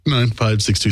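burping the words. Real, not acted. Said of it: "Sorry, I had to burp".

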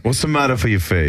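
put-on playful stage-Italian accent; mock Italian accent. Host joining in mocking the stranger, Italian accent.

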